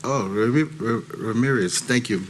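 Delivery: ordinary delivery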